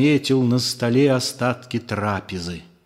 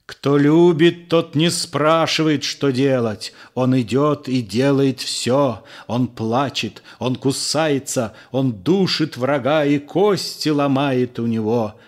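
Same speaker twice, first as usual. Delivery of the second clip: angry outburst; 2 semitones higher than usual. Acted. Judas lashing out at the disciples, angrily. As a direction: burst out at them, raised and fierce. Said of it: "гневно обрушился".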